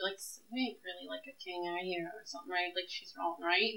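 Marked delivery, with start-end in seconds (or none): 0.2-2.7 voice dropped down, low and quiet. In character, questioning another character on the stairs: lowered voice. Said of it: "lower my voice".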